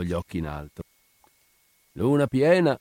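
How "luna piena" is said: higher, savoured exclamation; blissful. A narrator's reading. Brigadiere smoking in the moonlit courtyard, blissful. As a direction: take delight in it, pitch lifted. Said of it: "disse il brigadiere beatamente".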